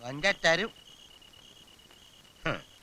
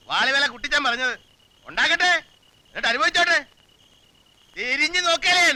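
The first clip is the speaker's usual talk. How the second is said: angry rant; 3 semitones higher than usual. Acted. Man rants about troublesome relative.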